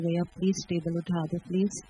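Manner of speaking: a sweeter, coaxing plea on "please". Shown as a demonstration. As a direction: soften the request, with extra affection. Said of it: "और प्यार से बोलूँ".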